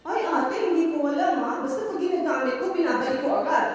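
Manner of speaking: high, loud defensive maid; maid answering back. Retold or imitated. Maid answering her yelling employer, loud protest. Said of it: "Then the Inday said".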